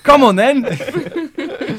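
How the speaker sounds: high, loud, very slow Glasgow taunt; glasgow street accent. Retold or imitated. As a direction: drag it out as a Glasgow hard man. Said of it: "That's how she says it".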